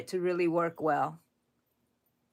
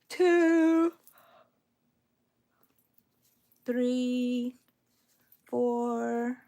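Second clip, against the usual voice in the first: a lift of joy on the final count; happy counting; 5 semitones higher, much slower than usual. Real, not acted. Crocheter counting her last stitches to viewers, happy and higher. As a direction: count the last stitches higher and brighter, glad to be nearly done. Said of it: "I get really happy at the end here".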